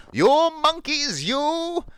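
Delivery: loud, high, drawn-out demand; acted yell, pounding out each slow word; angry peddler. Peddler stamping his foot at monkeys, angry yell. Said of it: "he felt quite angry".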